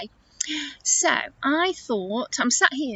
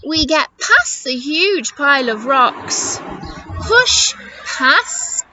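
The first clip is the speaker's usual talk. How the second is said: put-on lively, swooping read for little children; confident storybook animals; 4 semitones higher, 4 dB louder, slower than usual. Animals telling Eddie the route to the river, lively. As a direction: sell each stage of the journey with relish.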